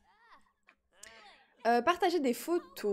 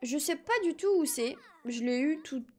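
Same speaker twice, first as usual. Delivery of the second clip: put-on baby voice; 2 semitones higher than usual. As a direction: talk like a little toddler. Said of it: "mon gage, c'est de faire une voix de bébé".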